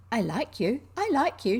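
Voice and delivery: put-on girl delighted with the robin; cried out. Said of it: "she cried out".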